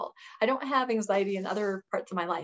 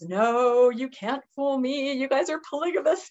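higher, insistent accusation; a hint of accusing matron; 5 semitones higher, 4 dB louder than usual. Temple matron accusing the couple, higher and insistent. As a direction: insist you can't be fooled.

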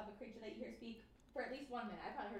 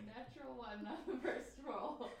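laughing; 5 dB louder, slower than usual. Real, not acted. Rolled a natural one.

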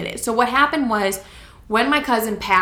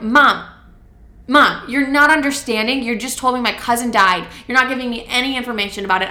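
upset protest; 3 semitones higher, 4 dB louder than usual. Retold or imitated. Daughter protesting to mom over cousin's death, loud and upset. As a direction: push back at Mom, frustrated and loud.

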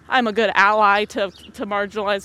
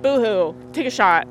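mocking boo-hoo; 4 dB louder than usual. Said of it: "that's what I say to my dad".

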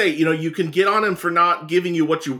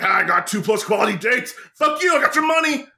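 mock sleazy huckster; 5 semitones higher than usual. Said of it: "he's like".

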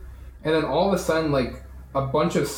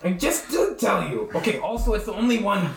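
lightly voiced nervous guide, a little higher; defensive Trevor; 4 semitones higher than usual. Trevor excusing himself to the angry party, lightly acted defensiveness. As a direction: make slightly higher-pitched excuses under accusation. Game master answers as accused Trevor.

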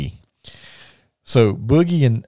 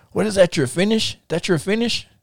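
high-pitched, lightly put-on Russian accent; Russian wrestler imitation, pitched up; Ivan Koloff; 9 semitones higher than usual. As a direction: question him in a mock Russian accent. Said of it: "he starts talking in his Russian, in his Russian, um, accent".

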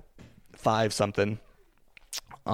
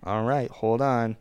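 whispering. Real, not acted. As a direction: hush it under your breath. Dad tending toddler mid-video.

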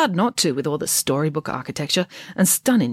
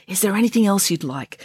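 kind, slightly higher-pitched offer; kindly; 4 semitones higher than usual. Acted. Head nurse to elderly Missus Phillipson, kindly. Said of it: "asked Missus Phillipson kindly".

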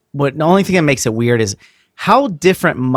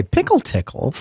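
laughing quote; 11 semitones higher than usual. Retold or imitated. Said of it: "I think I heard her say".

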